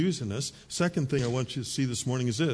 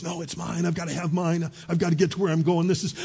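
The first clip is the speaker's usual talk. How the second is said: mock panic; 3 semitones higher, faster than usual. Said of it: "panic mode".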